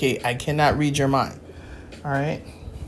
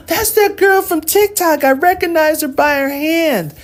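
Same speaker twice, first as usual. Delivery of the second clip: higher and louder, starstruck fan; mock excited fan; 10 semitones higher, 4 dB louder than usual. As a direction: squeal like a fan spotting a celebrity. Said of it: "someone's be like".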